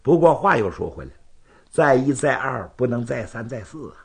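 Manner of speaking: conciliatory, reasoning rival; patient swordsman. Acted. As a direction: explain your restraint point by point. Zhan explains his restraint.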